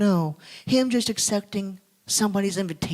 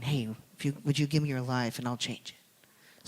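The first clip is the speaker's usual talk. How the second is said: God's gentle voice; 4 semitones lower, 9 dB quieter than usual. Retold or imitated. God speaking to a dying man.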